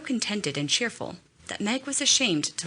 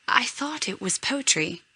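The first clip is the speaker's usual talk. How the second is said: higher-pitched, innocent remark; 6 semitones higher than usual. A narrator's reading. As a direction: say it with mild, guileless innocence. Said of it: "who said innocently".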